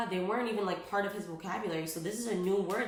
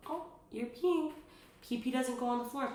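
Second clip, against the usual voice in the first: gentle reassurance; 5 semitones higher than usual. Shown as a demonstration. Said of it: "calm reaction to a dribble".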